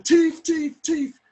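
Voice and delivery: high, loud cry of alarm; shouting. Retold or imitated. Neighbour lady raising the alarm about a thief, shouting. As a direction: call out thief at the top of the voice. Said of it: "the lady started shouting".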